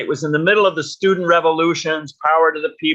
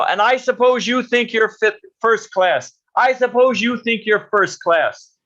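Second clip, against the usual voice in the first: retold rabble-rouser's taunt, pitched up; mild mock shout; 5 semitones higher than usual. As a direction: imitate a student shouting at a speaker. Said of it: "starts shouting at Prabhupada".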